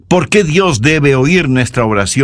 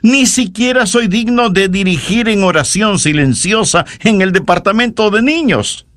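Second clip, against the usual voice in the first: lightly acted humble churchgoer, higher pitched; self-deprecating believer; 5 semitones higher than usual. Believer telling the pastor they are unworthy, lightly acted humble protest. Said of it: "Tal vez diga".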